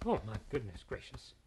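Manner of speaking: breathless, shaken oh my goodness; frightened gasp. Acted. Daughter just after the wolf ran off, breathless and shaken. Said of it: "her heart was beating like".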